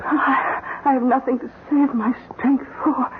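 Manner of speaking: dying wife fighting back tears; tearful. Acted. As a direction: voice catching on a sob. Dying wife speaks to husband.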